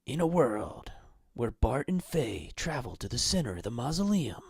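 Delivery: whispered dramatic trailer narration; breathy epic trailer tease; movie trailer voice. Pretend. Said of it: "my movie trailer voice".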